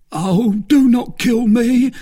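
high, loud, drawn-out plea for mercy; crying out. A narrator's reading. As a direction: beg desperately for your life. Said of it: "cried the bandit".

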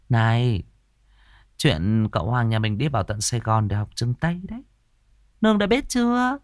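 a meddling troupe singer spreading news; catty gossip. Acted. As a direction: lean in with a sly, nosy tone. Tư Hiền gossiping to Đào Nương.

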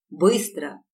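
a loud barked command; husband barking a loud order at his wife. Acted. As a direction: bark it at her. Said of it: "рявкнул на неё муж".

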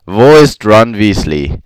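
the interrogator repeats his question, unmoved. Acted. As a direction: ask again as if nothing touches you. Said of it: "wiederholte der Mann die Frage unbeeindruckt".

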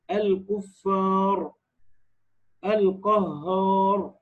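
very slow, long alif into heavy ر in الكفار, القهار; heavy final ra. Shown as a demonstration. Teacher giving examples of the rule, heavy ra in الكفار, القهار. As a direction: stretch الكفار and القهار, ending on a thick ر. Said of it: "هتفخم الراء الساكنة في الوقف".

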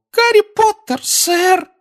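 very high squeaky elf voice; tiny eager house-elf squeak. Acted.

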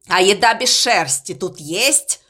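low and displeased; grumpy low voice. Acted. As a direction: grumble it low. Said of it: "недовольно спросил он". (недовольно, низко)

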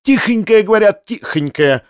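high, mincing mimicry of someone; mock someone in a thin little voice; squeaky taunting impression. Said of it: "тоненьким голоском, как будто кого-то передразнивая".

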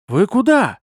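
high, loud helpless question; despairing, high-pitched protest; doomed. A narrator's reading. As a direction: call out with hopeless dismay. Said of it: "обречённый голос Луциса".

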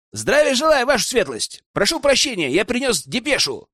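high, booming soldier's report; loud male voice. Acted. Secretary Osku loudly reports to the rector, high and booming. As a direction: bark the greeting like an eager officer. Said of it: "Донёсся громкий мужской голос".

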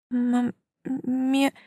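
stammering and frightened, high and drawn out. Acted. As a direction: stumble over the word in fear. A stammer of fear at the word dead. (испуганно запинаясь, высоко и протяжно)

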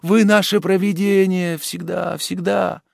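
overjoyed relief; grateful rapture; joyful exclamation. Acted. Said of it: "воскликнув".

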